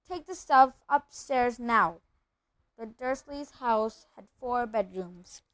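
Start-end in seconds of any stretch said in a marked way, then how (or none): 0.1-2.0 curt order. Acted. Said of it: "snapped his uncle".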